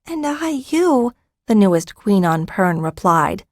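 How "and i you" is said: lightly voiced newborn dragon; baby dragon voice. Newborn dragon queen replies.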